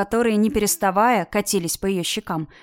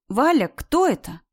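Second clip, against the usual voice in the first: louder; 5 semitones higher than usual. A narrator's reading. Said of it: "произнесла уже громче".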